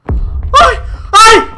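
two loud high-pitched yelps; sharp scream of fright; startled yelps. Real, not acted. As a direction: yelp as if jump-scared. Game startles the player.

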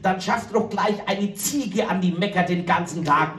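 high whiny cow voice pleading with the farmer; a sulky cow protesting her innocence, pitched high; cow puppet voice. Acted. Cow Kunigunde complains to Bauer Otto, high and whiny.

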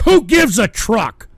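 furious slow rhetorical yell; slow angry shout. Real, not acted. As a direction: bellow it slowly at the chat. Ranting about being told to get truck.

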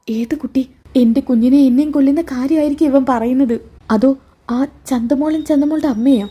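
Navya voiced. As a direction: worry rising as she realises the danger. Navya's worried inner thoughts voiced.

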